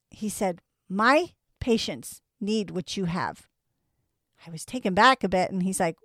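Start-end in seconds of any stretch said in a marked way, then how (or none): 0.9-3.5 slow, lightly imitated Chinese accent. Acupuncturist praising a patient, slow imitated Chinese accent. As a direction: retell it slowly with a hint of a Chinese accent. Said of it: "and in his Chinese accent".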